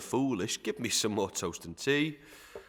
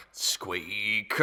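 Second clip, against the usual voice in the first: breathy whispered name. Acted. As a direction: hush him with a whisper. Master hushes servant.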